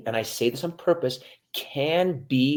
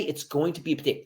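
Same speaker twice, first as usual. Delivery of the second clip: plain demo; 4 dB quieter than usual. Shown as a demonstration. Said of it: "Maybe you just say".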